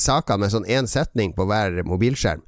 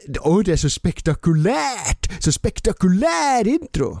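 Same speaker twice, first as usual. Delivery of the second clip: slow, high, overblown marvelling; mock awe; 7 semitones higher, slower than usual. Host ridicules online news drama, mock-awestruck and drawn out. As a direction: gush sarcastically, stretching each word upward.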